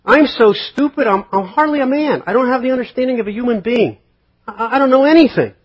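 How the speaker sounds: high, loud hammed-up groveling; preacher imitating a humble arguer, high and loud; mock self-abasing Agur. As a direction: overdo the humble confession. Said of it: "Like Agur".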